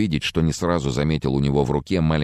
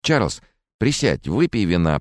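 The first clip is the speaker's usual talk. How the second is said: nervous babbling; 5 semitones higher than usual. Acted. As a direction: placate a man with a gun. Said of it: "пролепетал Фрэнсис". (робкий лепет, выше и медленно)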